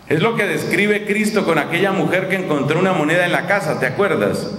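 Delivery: usual speaking voice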